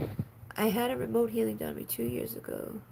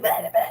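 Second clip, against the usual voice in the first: mock angry grunts; 7 dB louder, faster than usual. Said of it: "he starts getting".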